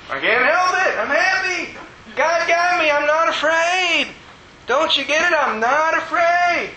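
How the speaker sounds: very high, emphatic joyful exclaiming; retold happy crying. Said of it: "supposed to cry when you're happy".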